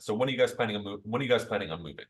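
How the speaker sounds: pushy, pressing salesperson question; assertive tone. Shown as a demonstration. Salesperson pressing a homeowner, assertive and pushy. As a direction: push the question hard like a pushy seller. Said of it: "if I use that in assertive tone".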